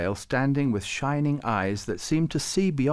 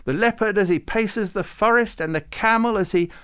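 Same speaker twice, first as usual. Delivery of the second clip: much higher, louder joyful rhapsody; happy; 10 semitones higher, 6 dB louder than usual. A narrator's reading. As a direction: gush with delight over every creature. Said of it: "Farouk said happily".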